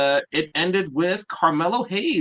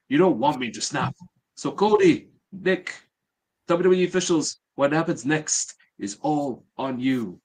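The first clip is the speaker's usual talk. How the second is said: put-on lightly French-accented promo, pitched higher; 4 semitones higher than usual. Podcast host reads out a wrestler's grievance promo, French accent. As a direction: deliver it with a French accent, voice lifted. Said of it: "French accent again".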